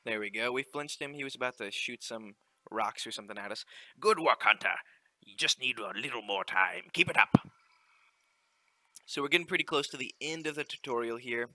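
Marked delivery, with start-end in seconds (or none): 4.0-7.3 louder, hearty sea captain reading the in-game lines; ship captain. Acted. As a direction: call it out like a captain on deck. Captain cheering.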